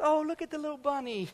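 high, fast, cooing imitation of the wife; imitating his wife. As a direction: coo it quickly and sweetly like his wife spotting a bunny. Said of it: "she goes".

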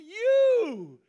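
preacher's climactic cry of joy; shouted slow declaration. Acted. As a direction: proclaim it as Paul, full voice. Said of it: "This is what Paul said".

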